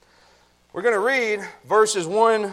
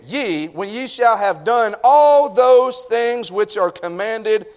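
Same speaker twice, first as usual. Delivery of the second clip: scripture reading; 4 semitones lower than usual. Acted. Preacher closing the passage for the congregation, deliberate scripture reading.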